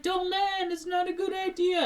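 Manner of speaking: high, sustained mock holler; imitated high-pitched shouting; warning call. Family calling warning to rescuers.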